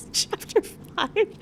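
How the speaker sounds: tiny, very high, slow squeak; excited squeak. Real, not acted. Reader announcing the final chapter, excited squeak. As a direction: squeak it out slowly, high and thin.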